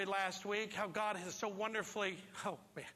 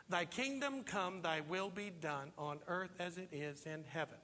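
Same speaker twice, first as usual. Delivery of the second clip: original reading; 5 semitones lower, 3 dB quieter than usual. Shown as a demonstration. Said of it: "very different than that, the original".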